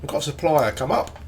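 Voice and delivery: chewing while talking; mouth full. Real, not acted. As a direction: talk through a mouthful of food. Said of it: "I apologise for the chewing noise".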